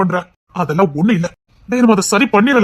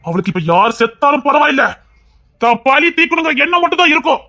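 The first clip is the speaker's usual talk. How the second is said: raised warning; 4 semitones higher than usual. Acted. Warning of her vengeful rage.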